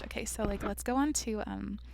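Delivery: lightly voiced shallow girl; mock airhead shopper. Still mocking the cheerful podcaster she won't be. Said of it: "if I talk like that".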